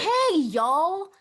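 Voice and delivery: high, loud Southern-style "hey"; big exclaimed greeting. Shown as a demonstration. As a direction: greet like seven exclamation points. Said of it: "capitalized with at least seven exclamation points".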